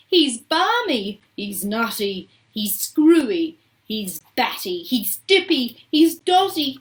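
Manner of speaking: high, loud string of exclamations; frightened chorus shouting. A narrator's reading. Panicked parents shouting about Wonka, frightened shouts. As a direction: hurl each insult, rising and falling. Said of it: "chorus of frightened shouting".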